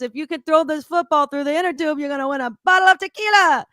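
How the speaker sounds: mock resort DJ announcing the game. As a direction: sell the game like a cheesy host. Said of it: "He goes".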